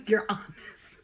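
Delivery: slow, teasing Uranus; Uranus said slowly with a smirk; drawn out Uranus. Real, not acted. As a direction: stretch Uranus out as a joke. Joke pronunciation, drawn out.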